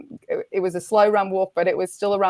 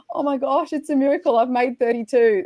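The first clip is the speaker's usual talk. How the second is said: higher-pitched, amazed relief; retold elation; 5 semitones higher than usual. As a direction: replay a breathless "I made it" moment. Reaching the thirty-two K arch.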